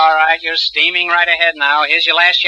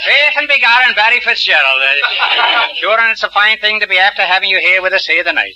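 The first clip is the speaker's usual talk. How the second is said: hammed-up stage Irish brogue, a bit higher; 4 semitones higher than usual. Host teases the Irish war bride in a hammy mock Irish brogue. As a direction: lay on a mock Irish lilt to tease the guest. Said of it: "How's my brogue?".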